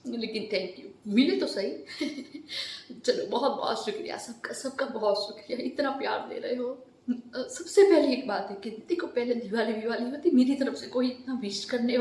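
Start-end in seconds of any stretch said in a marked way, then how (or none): 3.3-6.9 thanks with a catch of tears; teary thanks. Real, not acted. Vlogger thanking her fans, voice close to crying. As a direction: let the tears come into the thanks. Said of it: "रोने लगती हूँ".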